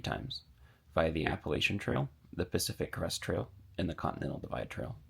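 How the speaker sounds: low, soft, measured narration; voice-over introduction. Acted. Scripted channel introduction voice-over.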